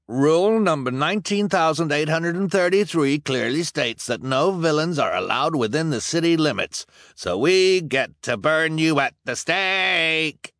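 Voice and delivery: high, gloating rule citing; anxious anger. Acted. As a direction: relish the punishment. Lesko cites the rule.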